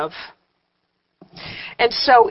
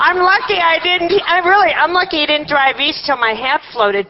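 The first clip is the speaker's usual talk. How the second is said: laughing disbelief; 6 semitones higher than usual. Real, not acted. Laughing at own folly.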